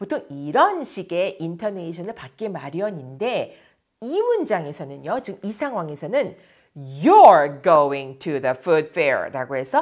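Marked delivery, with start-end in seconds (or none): 6.8-9.3 you're hit hard, rest kept light. Lesson on sentence stress, saying you're going to the food fair: stress on you're. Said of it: "you are를 강조하고 있어요".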